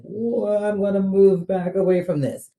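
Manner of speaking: a hammed-up startled retreat; mock shrinking back. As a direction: pull back like it's too much. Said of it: "they shrink into themselves".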